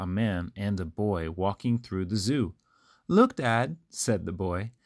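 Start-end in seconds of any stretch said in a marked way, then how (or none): 3.1-3.8 put-on a boy calling out, a little higher; excited boy. A narrator's reading. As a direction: point it out to Dad eagerly. Boy calls out to his father.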